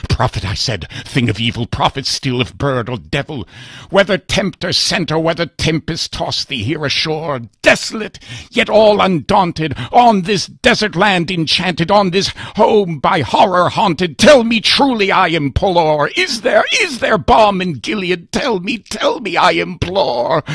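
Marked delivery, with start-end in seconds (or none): 0.1-0.4 urgent address. Acted. Narrator confronts the raven. 1.1-20.4 building to a much higher, louder, anguished cry; desperate plea. Acted. Narrator begs the raven for an answer about balm, rising to a cry.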